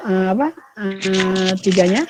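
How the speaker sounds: choppy dropping-out call audio; breaking up space radio. Real, not acted. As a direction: voice cutting in and out over a bad connection. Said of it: "Suaranya putus-putus". (suara putus-putus seperti radio)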